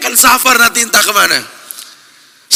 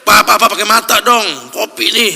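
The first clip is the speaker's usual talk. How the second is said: nagging scold; 4 dB louder than usual. Pretend. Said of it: "dia ngomel, dia cerewet".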